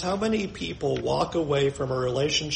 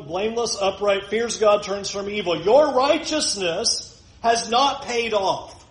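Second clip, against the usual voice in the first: Job's wife scoffing; 2 semitones higher than usual. Retold or imitated. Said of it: "Job's wife asked the question to Job".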